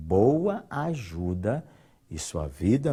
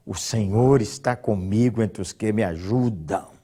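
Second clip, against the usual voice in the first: whisper; 3 semitones lower than usual. Shown as a demonstration. Repeats the psalm verse softly.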